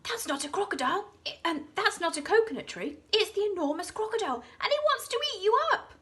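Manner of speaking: high, loud breathless warning; a hippo bellowing a frantic alarm; urgent hippo warning. A narrator's reading. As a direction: shout to save the children.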